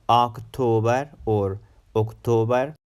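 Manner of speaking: October with a rounded, over-full first O; wrong vowels. Shown as a demonstration. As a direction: mispronounce "October" with a heavy "awk" or "oak" opening. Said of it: "So it's not".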